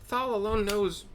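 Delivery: put-on high old woman's voice, ominous; old hag storyteller. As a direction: tell the horror like a bitter crone.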